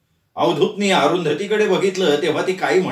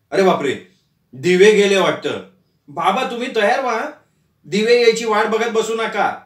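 raised voice of a son calling from outside the room; 4 semitones higher than usual. Acted. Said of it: "बाहेरनं नितीन ओरडला".

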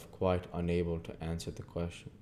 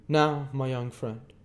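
higher, slow, imposing lawyer voice; stern lawyer Jaggers; 8 semitones higher, 7 dB louder than usual. A narrator's reading. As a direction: hold the witness with a hard stare.

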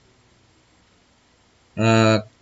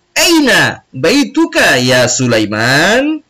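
Ali asking; 4 semitones higher, slower than usual. Acted. Teacher voices Ali in dialogue.

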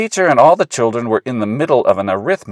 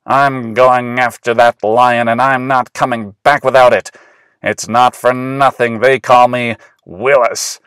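louder, steady commanding hunter; pretend lion hunter; 5 dB louder than usual. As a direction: order the crowd back bravely. Pretend lion hunter ordering crowd.

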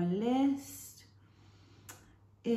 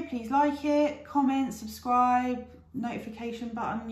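upbeat sign-off; 5 semitones higher, 3 dB louder than usual. Real, not acted. Sign-off call to subscribe.

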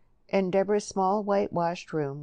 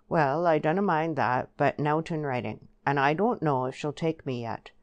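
lightly voiced country man, wary; a hint of rural dialect, a little louder; rustic Joe, wary; 4 dB louder than usual. Joe bargains with Eli over Lily, wary rustic voice.

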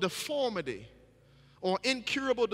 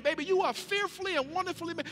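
put-on tender declaration to baby; 6 semitones higher than usual. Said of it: "That's what we be declaring".

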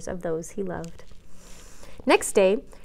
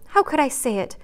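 higher tearful cry of How could I say it; remorseful wife crying the question out higher; tearful, pitched up; 4 semitones higher than usual. A narrator's reading. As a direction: plead with yourself in tears, raised. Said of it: "crying with repentant tears".

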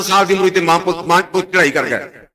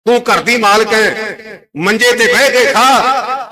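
slow, drawn-out address to an elder; lightly voiced daughter-in-law; 2 semitones higher, much slower than usual. Aunt telling her mother-in-law who may eat here, lightly acted slow speech. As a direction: stretch each phrase, lightly acting the aunt.

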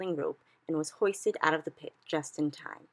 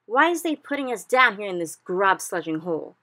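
furious giants shouting up from the pit, much louder; angry giants roaring from below; 4 semitones higher, 9 dB louder than usual. A narrator's reading. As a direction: yell it up in a rage. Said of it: "they shouted at the B F G".

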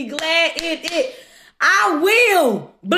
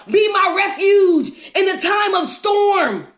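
acted desperate plea. Voices a desperate prayer to God.

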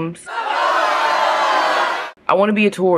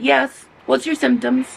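higher-pitched helpful clerk voice; front desk clerk; 9 semitones higher than usual. Retold or imitated. Hotel front desk answering a sick guest's call, high-pitched imitation. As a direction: pitch it up as the obliging receptionist. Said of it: "They said".

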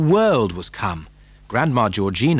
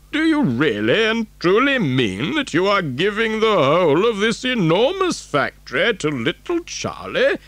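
put-on higher, wavering old grandfather's voice; incredulous Grandpa Joe; 8 semitones higher than usual. Grandfather doubting the gift of a factory to Charlie, incredulous. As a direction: question it in an old man's disbelief.

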